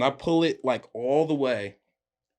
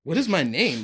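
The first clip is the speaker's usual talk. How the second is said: rising panic; 3 semitones higher than usual. Retold or imitated. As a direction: let the panic break through on the repeat. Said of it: "thinking in my head".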